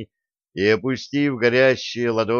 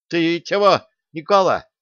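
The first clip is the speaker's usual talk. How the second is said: higher, louder stunned question; taken aback; 6 semitones higher, 4 dB louder than usual. A narrator's reading. Craftsman stunned by the question, taken aback. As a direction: caught off guard. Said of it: "опешил мастер".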